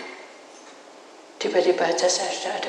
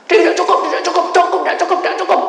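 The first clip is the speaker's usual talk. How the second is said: much higher, loud chant; spirits shouting; 11 semitones higher, 11 dB louder, much faster than usual. Retold or imitated. Spirits shout the coffin is too small, high and loud. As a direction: cry out it doesn't fit.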